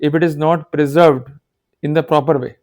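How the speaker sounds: slow, word by word dictation; dictating slowly. Shown as a demonstration. Lawyer dictating a golden rule to students, slow and deliberate. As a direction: spell out the rule slowly for notes. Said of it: "मैं लिख रहा हूं golden rules को".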